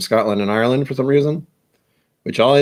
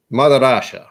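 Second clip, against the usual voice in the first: loud, raised mock Russian accent; 3 semitones higher, 5 dB louder than usual. Shown as a demonstration. Trying to think of Russia, mock Russian accent. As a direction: proclaim it in a put-on Russian accent. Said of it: "That's why I think of a Russian accent".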